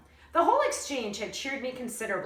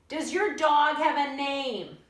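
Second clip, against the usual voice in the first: puzzled lady; 5 semitones higher, 5 dB louder, slower than usual. A narrator's reading. Lady asking from the road.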